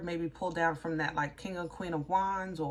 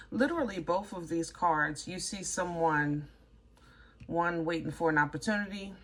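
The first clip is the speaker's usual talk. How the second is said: mouth full; 3 semitones lower than usual. Real, not acted. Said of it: "my mouth is full of water".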